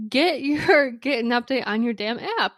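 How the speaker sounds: a hint of real annoyance, like telling her off; retold frustrated scolding. Host retelling how she scolded the cleaner, mock angry.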